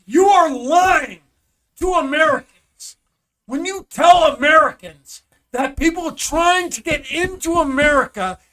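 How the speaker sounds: loud, heated protest, words hammered out; angry shouting. Real, not acted. Podcaster yelling at news claims of a border crisis, furious shout.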